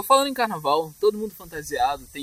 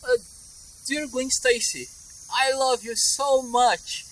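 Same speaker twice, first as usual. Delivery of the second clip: slow, drawn-out, higher British English; British accent; 4 semitones higher, much slower than usual. Shown as a demonstration. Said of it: "O inglês britânico".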